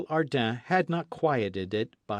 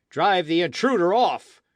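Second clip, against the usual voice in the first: crowd shout; 7 semitones higher, 8 dB louder than usual. Acted. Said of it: "shouted others".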